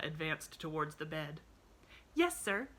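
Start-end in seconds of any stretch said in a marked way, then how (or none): 2.1-2.7 high, smiling reply; smiling little girl. A narrator's reading. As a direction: answer brightly through a smile. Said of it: "smiled Pollyanna".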